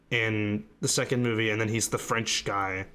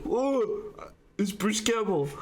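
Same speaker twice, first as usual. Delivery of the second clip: high-pitched retold fan excitement; re-enacted thrilled whoa, much higher; excited recognition; 9 semitones higher, slower than usual. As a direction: exclaim it like spotting a favorite actor. Retold pointing at the screen.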